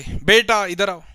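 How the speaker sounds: mom calls her son from afar, slow and loud; a mother's drawn-out call to her child. Retold or imitated.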